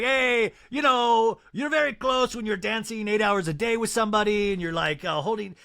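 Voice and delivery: hammed-up Mauricio explaining himself; lightly voiced Mauricio; Mauricio impression. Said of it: "your Mauricio impression".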